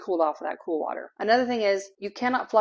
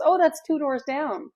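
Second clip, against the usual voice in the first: lightly voiced kind lady; 7 semitones higher, 3 dB louder than usual. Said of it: "She says".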